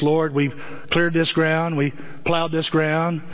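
lightly imitating Jimmy Stewart saying grace. Father praying at the dinner table, a lightly voiced Jimmy Stewart. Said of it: "in that Jimmy Stewart voice".

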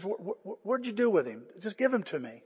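imitated halting, stammered plea; mildly tearful pleading. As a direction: act a soft, faltering question through tears. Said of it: "her eyes are just so filled with tears".

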